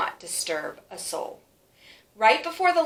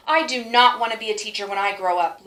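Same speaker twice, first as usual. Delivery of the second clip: defiant declaration; 5 dB louder, faster than usual. Acted. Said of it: "as she marched out".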